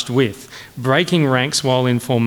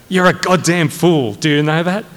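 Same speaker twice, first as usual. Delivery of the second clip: higher, moderately angry dressing-down; angry rebuke; 4 semitones higher, 3 dB louder than usual. Acted. Colonel dressing down his foolish major, angrily. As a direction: put a subordinate firmly down.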